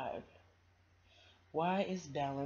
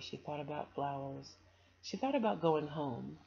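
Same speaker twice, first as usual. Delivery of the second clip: storybook read-aloud; 3 dB louder than usual. A narrator's reading. Reading a children's story aloud.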